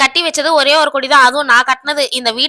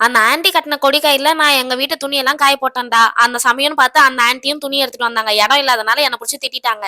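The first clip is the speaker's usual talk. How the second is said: put-on young girl. Mother also voices young daughter.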